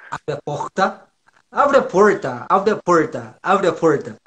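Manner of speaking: friend's southern r in "porta", repeated; imitated Curitiba accent. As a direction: mimic a Curitiban saying "porta" over and over. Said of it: "meu amigo falava assim". (imitando o sotaque curitibano no "porta")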